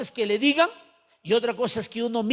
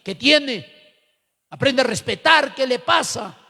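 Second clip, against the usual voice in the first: mock stern reprimand; 3 semitones higher than usual. Scolding the leader to respect.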